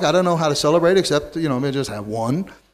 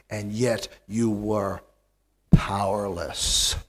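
inner accusing voice; slower than usual. Retold or imitated. The disease's voice speaking to him.

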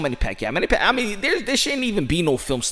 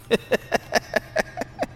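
breathy wheeze laugh; 6 semitones higher, 7 dB quieter than usual. Retold or imitated. Laugh after barber quote.

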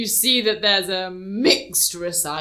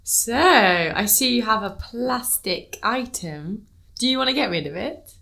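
goddess voice. Pretend. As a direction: play a goddess of the forest. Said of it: "Is that the voice you're gonna use?".

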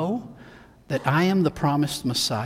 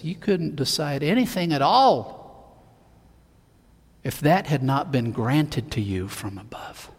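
calm Jesus. Acted. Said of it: "Jesus very calmly says".

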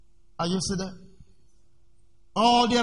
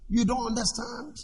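imitating a weepy, self-pitying protest; mock tearful complaint; 6 dB quieter than usual. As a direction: act hurt, half-sobbing, nobody gets it. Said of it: "You say".

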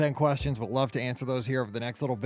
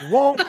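loud, high cartoon bonk; mock clunk sound; 13 semitones higher, 11 dB louder than usual. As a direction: blurt a silly impact noise. Joke about a shave at sea.

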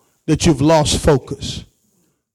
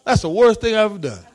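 quick, lightly laughing admission; amused confession; 3 semitones higher, faster than usual. Real, not acted. Pastor on helping people get jobs, amused. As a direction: toss it off fast with a touch of laughter. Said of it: "Seriously, I'm serious".

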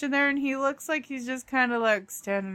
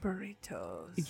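quiet mumble; 4 semitones lower, 13 dB quieter, slower than usual. Pretend. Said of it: "talk like this".

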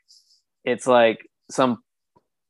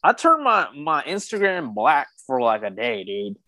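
mock a bro showing off his politics, pitched way up; mock woke hipster; 2 semitones higher than usual. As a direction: parody of a self-righteous hipster boasting. Continues hipster parody.

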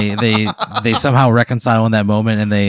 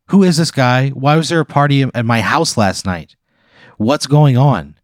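angry confrontation; 3 semitones higher, 3 dB louder than usual. Acted. Wife confronts husband about party.

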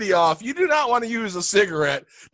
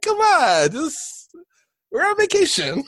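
pleading parent; 9 semitones higher, slower than usual. Retold or imitated.

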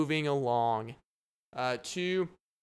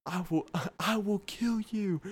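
laughing mock threat; 7 semitones higher, slower than usual. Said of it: "We heard".

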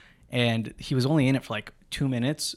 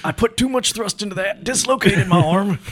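put-on old man voice; 8 semitones higher, 6 dB louder than usual. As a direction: grumble like a frail old hero. Continuing the old Indiana Jones bit.

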